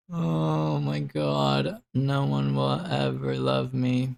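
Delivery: hammed-up lament, very drawn out; mock despair. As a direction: wail it like a fake tragedy, slowly. Mock despair after laughing.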